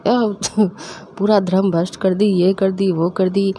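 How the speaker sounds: slow mock rant from mom. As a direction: imitate mom's outraged tirade. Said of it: "mummy जो तांडव कर रही थी". (धीमी, नकली गुस्से वाली बड़बड़)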